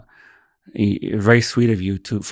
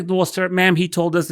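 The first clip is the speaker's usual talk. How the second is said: a higher, hesitant staff voice; lightly voiced nurse; 8 semitones higher than usual. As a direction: stammer an excuse like the nurse. Nurse answering the wife.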